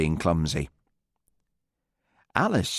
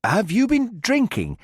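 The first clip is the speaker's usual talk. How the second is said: careful; 7 semitones higher than usual. A narrator's reading. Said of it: "asked carefully".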